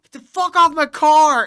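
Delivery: acted-out angry bellow; imitated angry yell. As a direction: yell it like warning someone off. Retells car owner yelling.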